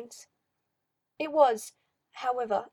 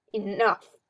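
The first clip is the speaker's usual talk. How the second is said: snarled; 2 semitones lower, 5 dB louder than usual. Acted. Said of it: "Fenris snarled at the two of them".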